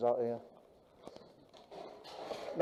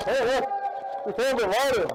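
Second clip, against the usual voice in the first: loud, higher, eager call; excited shout; 8 semitones higher, 4 dB louder than usual. Real, not acted. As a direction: call out a discovery. Excited discovery in game.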